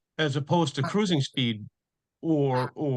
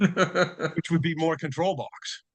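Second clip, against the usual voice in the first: laughing; 2 semitones higher, slower than usual. Real, not acted. Chuckling after a joke about the fix.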